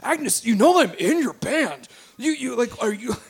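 anxious, halting bandmate; flustered. Acted. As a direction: trip over your words, rattled and unsure. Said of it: "gets really kind of flustered".

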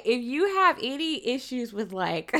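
giggling through the warning; can't hold back a laugh mid-sentence. Real, not acted. Warning viewers about disturbing scenes, laughing through it. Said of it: "I shouldn't laugh".

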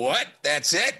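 retold disbelief with a small burst of volume; astounded. Trader retelling his reaction to the floor price, mildly astounded. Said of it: "I was astounded".

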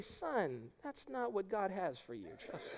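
soft, tender fatherly voice, barely above a murmur; lovingly. Retold or imitated. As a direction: lay a loving hand on the words, quietly. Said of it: "I just lovingly say".

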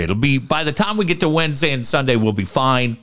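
talking with a packed, blocked nose. Real, not acted. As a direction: speak through a stuffed, blocked nose. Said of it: "my nose is packed 'cause I had surgery".

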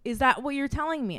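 hammering each word of the price back at the vet; retold angry confrontation.

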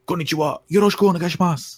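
yelled greeting. Retold or imitated. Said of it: "people just yell out".

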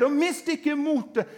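loud, rising sermon build, each verse hammered; preaching at full force. Acted. Preacher to congregation, full-force preaching.

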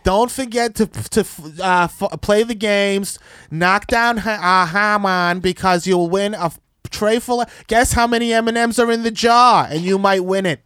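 lightly voiced old Jewish man at a carnival; a hint of a chatty Jewish uncle announcing games. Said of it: "the most Jewy voice I ever heard".

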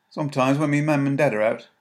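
a nervous lad from the streets; boy's voice. Acted. Tommy answering Mary, high and nervous.

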